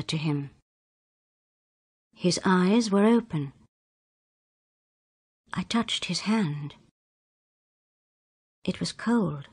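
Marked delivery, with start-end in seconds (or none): 5.5-9.5 whispered, barely voiced; hushed whisper. A narrator's reading. Narrator touching dead George's hand, whispered. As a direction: breathe it as if at a deathbed.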